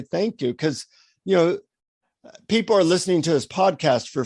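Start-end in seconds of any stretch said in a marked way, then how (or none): 0.0-0.5 understated, heartfelt thanks; deep gratitude. Shown as a demonstration. Showing listeners how to thank, deep gratitude. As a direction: say it sincerely, as to a friend. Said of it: "in deep gratitude".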